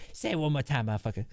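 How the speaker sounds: lightly voiced cop character; a hint of a threatening cop voice; Ned Schneebly. Shown as a demonstration. Cop character warns the trash-talking kid, light character voice. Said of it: "I say it in Ned Schneeby's voice".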